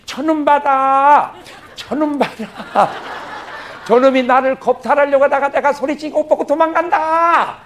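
high, loud, slow screaming accusation; shrill accusing wife. Acted. 보디발 아내가 종들에게 외치듯 높고 크게 비명. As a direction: cry out to the servants that he attacked her. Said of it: "이래야지".

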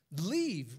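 "Leave" as a firm command. Shown as a demonstration. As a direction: bark out "Leave" like an order. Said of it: "with an exclamation point".

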